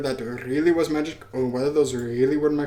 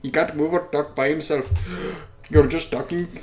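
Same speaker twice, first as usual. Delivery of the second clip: raised, scornful denial; scornful disbeliever; 3 semitones higher, 3 dB louder than usual. Acted. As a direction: hit each accusation hard, dismissing the fantasy.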